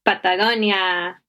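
Patagonia in a Spanish accent; Spanish pronunciation. Shown as a demonstration. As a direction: say Patagonia the Spanish way, pure vowels. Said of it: "I said that in the gringo accent".

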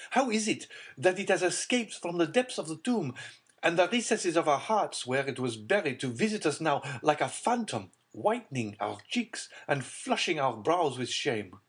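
cried out. A narrator's reading. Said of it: "cried Villefort".

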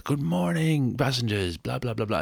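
high, showy station greeting; grand announcer voice. Retold or imitated. Mocking the train voiceover guy as a hammed-up conductor. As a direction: belt it like a Broadway conductor. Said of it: "he bursts out and it's like".

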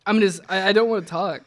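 reluctant words through spicy pain; laughing through a burning mouth; pained talking. Real, not acted. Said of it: "talking makes it worse".

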